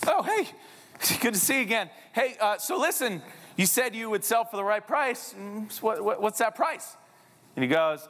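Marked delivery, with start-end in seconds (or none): 0.1-7.0 eager greeting. Retold or imitated. Eager realtor approaches Tyler again.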